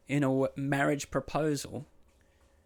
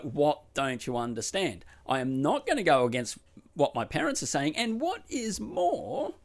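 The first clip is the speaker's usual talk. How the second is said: livid; 4 semitones higher than usual. Retold or imitated. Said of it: "she's just livid now".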